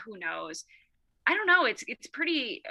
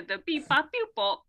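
robot beeping; 6 semitones higher than usual. Retold or imitated. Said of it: "that robot stuff killed me".

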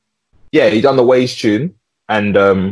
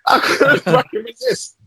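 high, slow wailing mock sob; mock crying. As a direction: wail it like a fake cry. Joking lament over the doughnuts.

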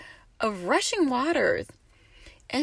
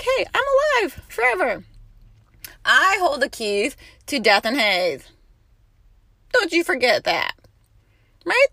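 high, loud voice of the risen Lord; preacher voicing Christ with force; Jesus speaking; 4 semitones higher, 6 dB louder than usual. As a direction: speak as the living one. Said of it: "He said".

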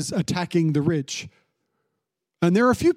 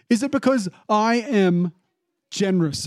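indignant landowner; 3 semitones higher than usual. Acted. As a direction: lean on "because", offended boss. Landowner confronting grumbling workers.

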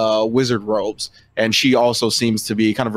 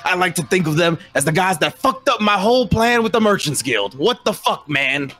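high-pitched, indignant goblin voice; irate goblin; 7 semitones higher than usual. Acted. Goblin confronting the party over his plan, high and irate. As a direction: pipe up high, complaining about your ruined plan. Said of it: "Mister Krobs kinda pipes up".

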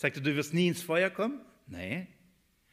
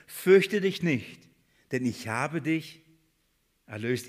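emphatic proclamation; slower than usual. Shown as a demonstration. Preacher to the congregation, reading the verse slowly and emphatically. Preacher reads God's promise aloud.

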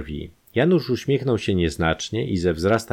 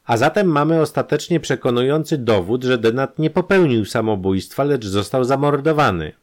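higher and louder decisive verdict; triumphant conclusion; 8 semitones higher, 5 dB louder than usual. A narrator's reading. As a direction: announce the proof. Concluding the murder proof.

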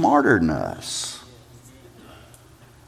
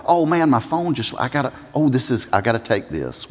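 mock excuse; 4 dB quieter, faster than usual. Mock excuse to escape pain.

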